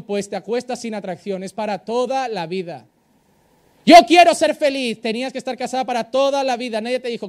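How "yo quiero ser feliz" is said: louder, higher mock of a woman wanting happiness; mock whiny wife. Pastor mimicking a congregant who wants happiness, mock whine. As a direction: mimic her complaint, hammed-up.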